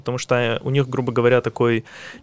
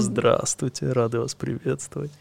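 languid voice; 5 dB quieter than usual. Retold or imitated. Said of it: "С томным голосом".

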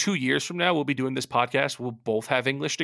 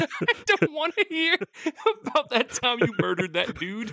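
high squeaky mocking voice, laughing through it; 11 semitones higher than usual. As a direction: squeak it out like a whiny friend. Mocking friend's complaint.

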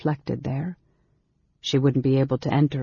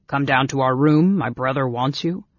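big brother, bewildered protest; 3 dB louder than usual. Acted. Big brother balking at fetching the girl, bewildered protest. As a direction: object in a hearty, puzzled voice. Caramon questions his brother.

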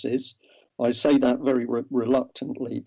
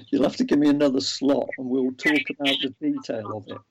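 laughing; faster than usual. Real, not acted. Laughs while turning down long talk.

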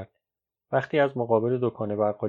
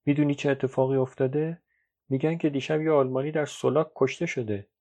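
mildly anxious, higher-pitched voice; understated nervous urgency in a raised pitch; 4 semitones higher than usual. Acted. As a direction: pass on troubling news with a touch of worry.

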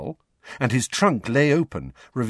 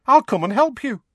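put-on high, loud, eager young witch; perky, bright character voice; 7 dB louder than usual. A narrator's reading. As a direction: offer help cheerily, pitched way up. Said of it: "said Tonks brightly".

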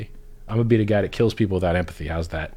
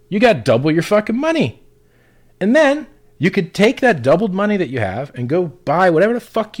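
higher and louder, a hammed-up eager advisor; sarcastic sales pitch climbing higher and louder; mock pep talk; 5 semitones higher, 5 dB louder than usual. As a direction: pitch it like an overexcited salesman mocking gold bugs. Mocking advice to gold bugs.

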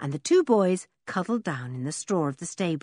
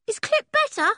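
high, eager call across the yard; a shy boy calling over, hopeful; eager gypsy boy calling; 4 dB louder than usual. A narrator's reading. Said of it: "he called".

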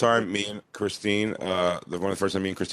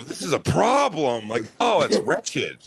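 slow mock disgust; 5 semitones higher, slower than usual. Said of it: "you go".

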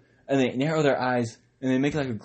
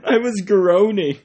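louder, higher, slow protest; mock groan insistence; 8 semitones higher, 8 dB louder, slower than usual. Shown as a demonstration. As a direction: stretch it out in a hammed-up protest. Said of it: "You're moaning".

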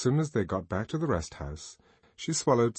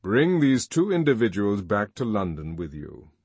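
deep commanding voice; 5 dB louder than usual. Acted. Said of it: "said the deep voice".

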